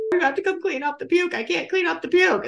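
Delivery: high-pitched, pleading mock complaint; retold squeamish plea. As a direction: recount begging someone to take over. Retold plea to clean puke.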